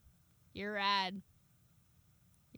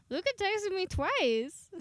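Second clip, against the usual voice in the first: giddy excitement; 9 semitones higher, slower than usual. Real, not acted. Giddy over crush's texts.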